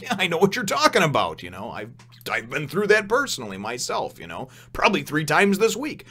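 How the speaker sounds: mock agreement; mock sympathy.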